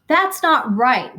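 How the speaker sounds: high, slow, loud wail. A narrator's reading. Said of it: "wailed Missus Bowles".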